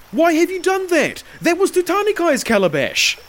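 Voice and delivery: high, loud, outraged protest; fearful angry outcry. A narrator's reading. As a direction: cry out, half frightened and half furious. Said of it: "half in fear and half in anger".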